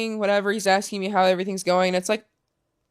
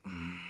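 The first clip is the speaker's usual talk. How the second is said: angry grunt; 14 semitones lower, 20 dB quieter than usual. Retold or imitated. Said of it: "I was so angry".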